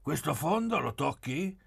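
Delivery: high, lively teasing questions; cheerful. A narrator's reading. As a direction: ask it merrily, pitched well up. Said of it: "Pieretto disse allegro".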